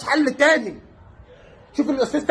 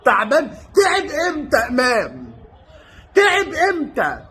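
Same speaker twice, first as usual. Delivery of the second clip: incredulous outburst; slower than usual. Real, not acted. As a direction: scoff at the idea he's tired. Mocking disbelief at tired claim.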